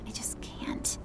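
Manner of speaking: soft, defeated near-whisper; discouraged. Acted. Daughter admitting failure to her father, discouraged. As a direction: let the voice sink away in defeat. Child fails to sense spirits.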